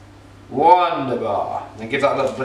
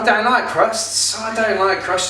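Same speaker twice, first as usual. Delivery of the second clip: mock fussy child; 7 semitones higher than usual. Dad mimicking his daughter refusing crusts, hammed-up protest. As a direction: exaggerate a kid's complaint, pitched well up. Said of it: "She doesn't speak like that".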